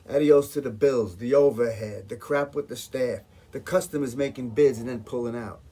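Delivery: loud litany of grievances; worked-up venting. Acted. Caterer listing his business troubles to auditioners, fed up.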